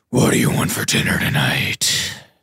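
heavy air pushed through the voice. Showing the everyday lines they said after watching Dark Knight, in a Batman impression. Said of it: "doing a lot of Batman impressions".

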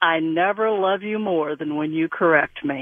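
ordinary talk, nothing marked

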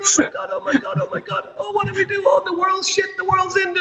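put-on play-acted very high, panicky sobbing like a toddler. Acting out a man who rang you up crying on the phone; imitating someone crying. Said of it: "He was crying like".

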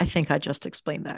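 dropped, nearly breathy voice. Retelling a talk with Mom, the speaker quotes a reply, retelling a dropped voice. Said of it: "I dropped my voice and said".

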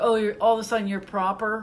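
normal talking voice

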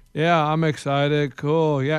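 mock bored, low, flat, half-hearted drone. Retelling a guest who gave one word answers: imitating unenthusiastic Kenan Thompson. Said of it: "he was just like, one word answers".

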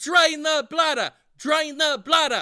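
shouting. Explaining what the listener should yell, then yelling it out.

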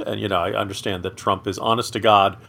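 normal talking voice

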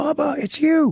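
put-on very high-pitched little kid's yell, screaming. Retelling a child spotting him on a big screen: imitating Hadley screaming. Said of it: "and all he just screams".

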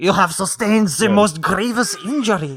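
put-on French accent, pitched very high. Voicing a talking head in a scene, speaking in a french accent. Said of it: "a French accent".

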